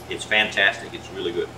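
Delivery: talking through a mouthful; chewing while talking; mouth full. Real, not acted. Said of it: "I don't wanna talk with my mouth full".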